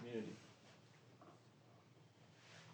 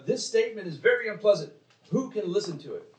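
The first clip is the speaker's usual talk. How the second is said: complaining disciples; 7 semitones higher, 8 dB louder, faster than usual. Retold or imitated. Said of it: "they said in, uh, verse sixty".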